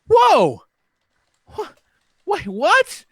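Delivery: high, loud startled whoa; hammed-up disbelief; mock shock. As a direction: act out the sudden realisation. Retold shock at horse death.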